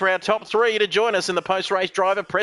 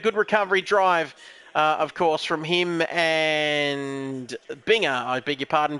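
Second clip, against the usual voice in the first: ordinary talk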